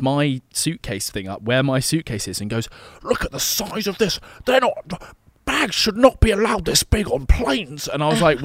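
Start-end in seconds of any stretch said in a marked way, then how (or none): 3.0-7.9 high-pitched, indignant complaining impression; mock angry flyer. Man griping to flight attendant about luggage, mock angry. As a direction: imitate a fussy, outraged passenger making a point. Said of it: "angry flyers".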